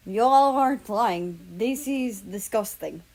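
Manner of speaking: Southern drawl, slow and disgusted. Acted. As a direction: drag it out in disgust. Russia voiced, slow drawl.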